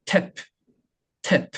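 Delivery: practice "탭" with a popped, airy P; exaggerated final P. Shown as a demonstration. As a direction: overdo the release ending "탭". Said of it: "이렇게 발음하진 않겠죠". (연습용으로 "탭" 끝 프를 과장)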